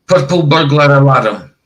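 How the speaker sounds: "purple burglar alarm" with rolled R's and L's. Shown as a demonstration. Scot showing chat how they say it, rolled R's. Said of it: "I would say".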